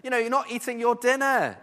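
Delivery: lightly voiced Jezebel coaxing her husband; mock sweet wife. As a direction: fuss over him like a doting wife. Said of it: "she's like".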